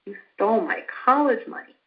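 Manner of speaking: sad demo line. Shown as a demonstration. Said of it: "Or sadness?".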